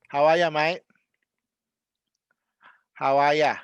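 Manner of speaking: Aussie "How are ya" with no R in "are"; Australian, R dropped. Shown as a demonstration. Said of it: "don't even pronounce the R".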